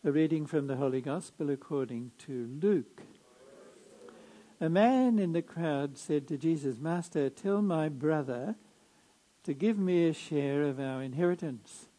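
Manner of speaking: measured liturgical reading voice; Gospel proclamation. Acted.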